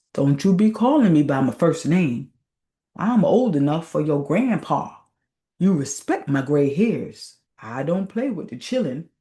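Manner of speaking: put-on old man's rebuke. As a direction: mildly scold the youngster for using your first name. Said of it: "turned angrily upon Arthur".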